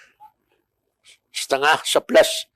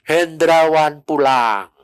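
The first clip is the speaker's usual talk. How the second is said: slow, drawn-out calling, barely raised; mild retold cry; slower than usual. Retelling the cry that Hendrawan goes home, drawn-out. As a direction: stretch out a mock announcement. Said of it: "Saudara teriak".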